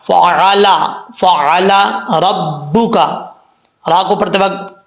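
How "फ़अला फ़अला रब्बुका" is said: "फ़अला" with a throat ayn, not a glottal hamza; measured recitation, "फ़अला" with pharyngeal ayn; clear ayn. Shown as a demonstration. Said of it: "हमजे की आवाज़ नहीं आनी चाहिए".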